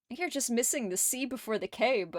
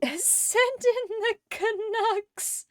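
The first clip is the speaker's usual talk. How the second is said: mock rallying call; 10 semitones higher, much slower than usual. Rallying cry to chat.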